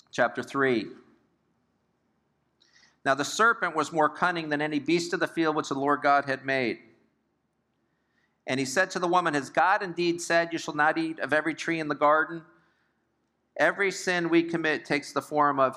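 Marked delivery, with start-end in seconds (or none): 3.0-12.4 raised-pitch Bible reading; scripture reading. A narrator's reading. Preacher reads the serpent's question from Genesis, raised-pitch scripture reading. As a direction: read the verse out to a congregation.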